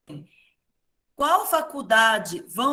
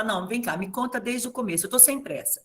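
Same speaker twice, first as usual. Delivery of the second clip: softer, calm reassuring teacher; calm reassurance; 4 dB quieter than usual. Retold or imitated. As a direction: take a breath and soothe the student. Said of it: "respirar fundo e falar". (professora acalmando o aluno aflito, voz suave)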